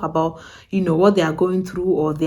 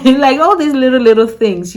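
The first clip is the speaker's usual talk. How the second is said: laughing; 6 semitones higher, 9 dB louder than usual. Real, not acted.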